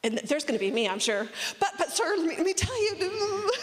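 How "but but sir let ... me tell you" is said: high, laughing mock pleading; laughing mock plea. Pretending to plead with God, laughing. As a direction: beg playfully through a laugh.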